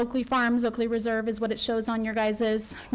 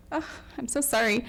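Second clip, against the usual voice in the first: tearful apology. Real, not acted. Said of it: "I'm gonna try not to cry".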